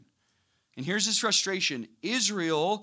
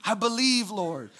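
mock pious response; 6 semitones higher, 5 dB louder than usual. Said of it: "You're like".

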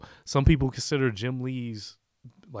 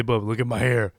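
Wolverine voice; 6 dB louder than usual. Pretend. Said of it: "I have to say".

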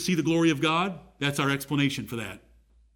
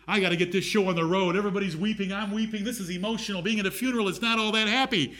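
impatient grumble; 4 semitones higher, faster than usual. Acted. Preacher voices Jesus wanting to get on with it at a funeral, impatient. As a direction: grumble through it, eager to move on.

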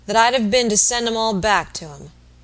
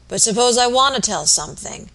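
loud, feverish urgency; dying man bursting to confess, feverish; feverish energy; 4 semitones higher, 6 dB louder than usual. A narrator's reading. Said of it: "with feverish energy".

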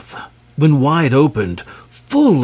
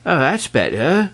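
contented sigh; 5 semitones higher than usual. Acted. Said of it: "sighed the dragon contentedly".

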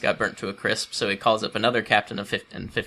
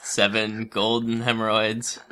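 laughing through the quote; slower than usual. Retold or imitated. King's order, retold laughing.

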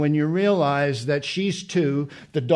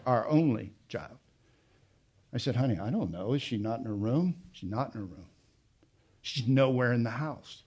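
much softer and lower, held back; hushed retelling; 4 semitones lower, 8 dB quieter, faster than usual. Real, not acted. Father recalling his missing daughter, hushed and low. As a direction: speak it low, barely above breath.

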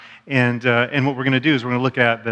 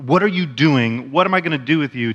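exasperated parent. Shown as a demonstration. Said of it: "between when you say".

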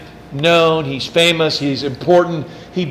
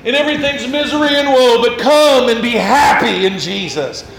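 higher, salesy prosperity preacher voice; mock preacher pitch; 4 semitones higher than usual. Pastor mocking false preachers to his congregation, salesy parody. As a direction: sell it like a cheesy TV preacher. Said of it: "People are like".

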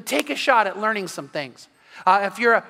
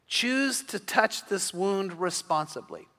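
slow, quiet delivery; 6 dB quieter, slower than usual. Shown as a demonstration. Pastor driving home a point to wounded sons, slow and soft. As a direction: choose drawn out slowly, softer. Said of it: "said twice, slow then normal".

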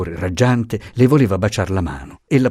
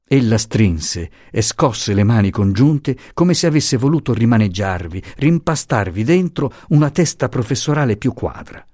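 ordinary delivery, nothing marked

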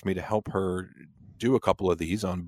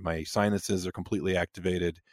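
congested and hoarse from a cold; sick voice, nose blocked, voice half gone; stuffy, hoarse voice. Real, not acted. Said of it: "I don't have a voice".

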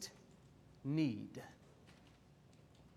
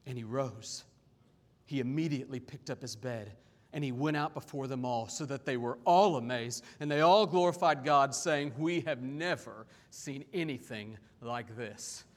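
measured, expressive Bible reading; scripture reading. Acted. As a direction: read scripture aloud with deliberate emphasis. Reads scripture to congregation.

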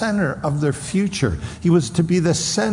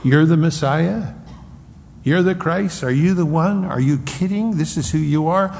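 scornful higher taunting questions; mocking disbelief; 3 semitones higher than usual. The Sanhedrin scoffing at the beaten Messiah. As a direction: sneer at him in disbelief. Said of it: "They're saying".

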